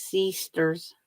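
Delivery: "sisters" with a long ee, SEE-sters; own accent on sisters. Shown as a demonstration. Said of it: "There's a difference".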